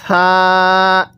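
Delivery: gentle, drawn-out সা; soft letter সা. Shown as a demonstration. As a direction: say সা with a soft th-like sound, vowel held long. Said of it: "সায়ের উচ্চারণটা অনেকটাই নরম আকারে হবে". (সা নরম করে টেনে)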